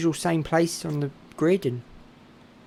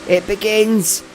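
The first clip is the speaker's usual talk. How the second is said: much higher, louder, squeaky with excitement; real excited squeal, loudest at the end; voice getting high; 5 dB louder than usual. Real, not acted. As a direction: pitch soars as the finish thrills you. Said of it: "My voice is getting high. I'm getting excited".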